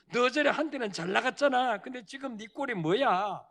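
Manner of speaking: mocking taunt. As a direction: taunt him like a jeering crowd. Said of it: "비웃고 조롱한다는 거예요".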